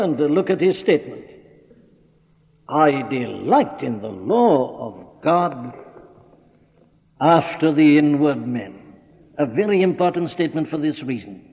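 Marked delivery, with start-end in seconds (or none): 2.7-8.7 "delight" leaned on, the whole quote slow; stress on delight. Shown as a demonstration. Preacher quoting the apostle to his hearers, "delight" stressed slowly. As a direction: dwell on "delight", savouring each word. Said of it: "I'm emphasizing the word delight".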